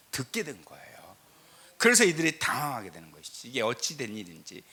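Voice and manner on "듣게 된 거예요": hushed whisper for the key revelation. Acted. A pastor whispering the key point to his congregation. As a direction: drop to a breathy secret, no voice.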